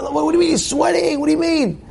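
high, mock-disbelieving voice; hammed-up disbelief; mock incredulity. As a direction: play the baffled onlooker.

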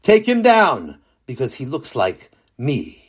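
a hint of Hashem. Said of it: "So Hashem says".

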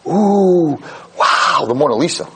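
gushing tourist. Retold or imitated. Tourists gushing over painting.

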